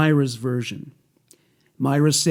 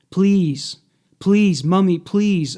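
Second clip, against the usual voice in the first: higher repeated pleas, mildly desperate; pleading; 4 semitones higher, 5 dB louder, slower than usual. A narrator's reading. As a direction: read a child begging, with restraint. Reads child's pleading from transcript.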